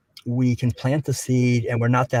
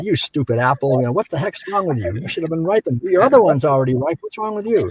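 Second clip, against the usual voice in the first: higher-pitched mock scolding, no real shouting; mock yelling; 5 semitones higher, faster than usual. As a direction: scold a fruit in hammed-up exasperation. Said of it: "start yelling at them and say".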